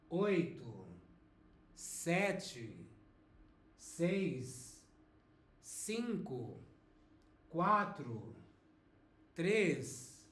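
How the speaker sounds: vinte down to um, said clearly for the class; countdown to repeat. Shown as a demonstration. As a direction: count down slowly for students to echo. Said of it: "So after me".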